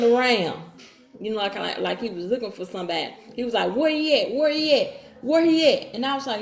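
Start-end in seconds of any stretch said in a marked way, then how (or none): 3.7-5.9 higher, louder imitation of a frantic searcher; pitched-up mock agitation; retold agitated demand. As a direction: act out an urgent, repeated demand. Acted retelling of him searching the house.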